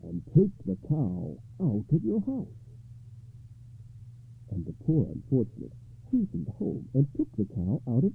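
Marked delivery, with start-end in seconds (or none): 0.0-2.5 slow, deliberate counsel; lightly voiced wise rabbi; calm rabbi. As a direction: spell out the instruction unhurriedly. Rabbi instructs the poor man.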